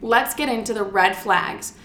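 slow, panting between words; breathless, catching her breath. Real, not acted. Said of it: "I'm a little out of breath right now".

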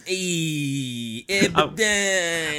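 a light Fonz, slow drawn-out name; cool-guy Fonz with the thumbs; Fonz impression. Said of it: "if you ever do a Fonz".

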